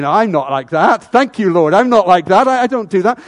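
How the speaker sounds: a hint of a pious boaster thanking God; self-righteous Pharisee. Preacher voices the Pharisee thanking God he's better. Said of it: "Pharisee praying, going".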